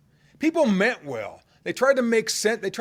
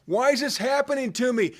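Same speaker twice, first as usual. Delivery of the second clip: anguished cry; 8 semitones higher than usual. Acted. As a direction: throw the question up at the sky. Psalmist crying out.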